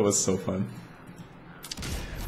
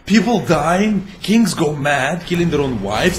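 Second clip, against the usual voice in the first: higher, mock-upbeat sarcasm; sarcastic cheer; 5 semitones higher than usual. Real, not acted. Mocking the game's grim story, sarcastic cheer. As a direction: sell the gloom as sunny.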